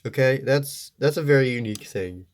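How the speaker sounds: stuffy voice from a blocked nose. Real, not acted. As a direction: speak through a stuffy nose. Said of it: "apologize if my voice sounds a little stuffy".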